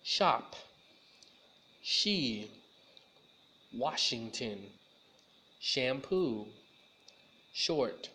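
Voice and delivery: slow, separate words, hushing each "sh"; "Washington" and "Shampoo" with a rounded, rushing "sh"; clear sh sound. Shown as a demonstration. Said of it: "now let's try the S H".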